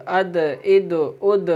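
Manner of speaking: اد with the د bounced back; اد, the د released with a short echo; echoing qalqala. Shown as a demonstration. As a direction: let the د of اد rebound. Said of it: "اس میں بھی آواز لوٹے گی".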